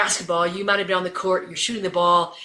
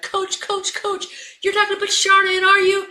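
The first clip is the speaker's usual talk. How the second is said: very high, alarmed voices; panicked protest; 12 semitones higher, 4 dB louder than usual. Retold or imitated. Assistant coaches to head coach, panicked disbelief. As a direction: imitate assistants aghast at the decision.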